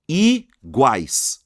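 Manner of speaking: "iguais" very slow, in two loud syllables. Shown as a demonstration. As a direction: hold I, pause, then GUAIS in "iguais". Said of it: "Duas sílabas".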